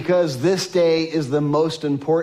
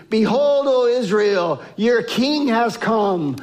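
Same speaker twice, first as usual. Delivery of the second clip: raised, higher proclaiming call; mild mock proclamation of the crowd; crowd crying out; 3 semitones higher than usual. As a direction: lift it like a crowd hailing a king. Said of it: "all the people cried out".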